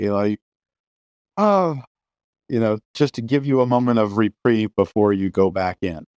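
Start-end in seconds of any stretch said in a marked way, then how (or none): 1.4-1.8 high-pitched mock sigh of relief; imitated sigh. Shown as a demonstration. Showing a moment of reprieve in horror, imitated sigh. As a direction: act out a brief "oh" of relief. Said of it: "like a sigh".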